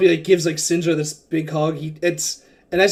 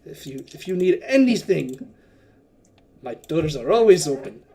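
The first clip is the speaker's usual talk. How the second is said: jovial merchant prince; 3 semitones higher than usual. Acted. Wakanga introduces himself as a merchant prince, jovially. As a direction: sell yourself, with a wink at their wallets. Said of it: "He's like".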